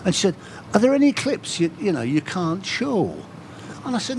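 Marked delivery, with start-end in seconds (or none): 0.7-3.1 imitated Carlisle interviewer, slowing at the end; Carlisle accent. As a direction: probe in a put-on Carlisle accent. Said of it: "slipped into my Carlisle accent".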